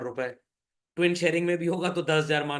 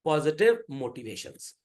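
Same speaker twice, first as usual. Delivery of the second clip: slow emphasis; 3 semitones lower, much slower than usual. Shown as a demonstration. Teacher stressing key term.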